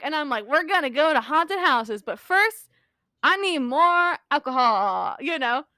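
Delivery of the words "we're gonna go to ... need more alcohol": drunk reveler imitation, dragging out the last demand; lightly acted tipsy enthusiasm, stretched toward the end; pumped-up drunk. Drunk partygoer demanding more before the haunted houses, tipsy and pumped. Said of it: "I'm pumped. I'm drunk".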